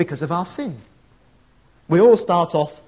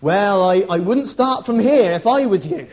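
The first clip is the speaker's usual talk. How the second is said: put-on rural accent; 2 semitones higher, 5 dB louder than usual. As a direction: play the country local with a put-on rural accent. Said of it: "put on my best rural accent".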